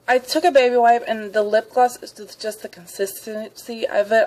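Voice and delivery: talking with gaps in teeth; words slurred through missing teeth. Real, not acted. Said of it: "I can't talk. I'm missing teeth".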